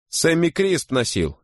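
high, drawn-out exclamation; exclaiming. A narrator's reading. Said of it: "воскликнул четвёртый".

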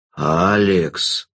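low, wagging warning; warning jester. A narrator's reading. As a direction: chide her by name like a sly jester. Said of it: "погрозил он ей пальцем".

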